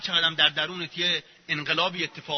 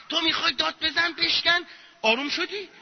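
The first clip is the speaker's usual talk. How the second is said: high-pitched mock coaxing; mock therapist; 10 semitones higher than usual. Mock therapist urging a client to vent, high-pitched coaxing. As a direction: coax in a put-on high voice.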